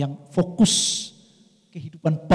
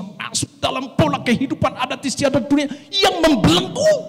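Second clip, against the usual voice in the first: preaching; 6 semitones higher than usual. Real, not acted. Preaches against binding customs.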